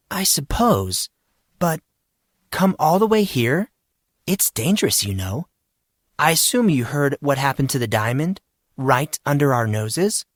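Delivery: a hint of a nervous teacher; concerned unsure woman. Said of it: "sounding both concerned and unsure".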